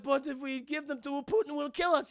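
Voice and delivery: high, loud pleading voice; mock panicked protest. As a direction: imitate frightened henchmen objecting. Voicing frightened Russians pleading.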